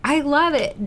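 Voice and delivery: sing-song praise for Haley after her talk; excited cheer. Real, not acted. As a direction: cheer her on, beaming with delight. Leader cheers the presenter.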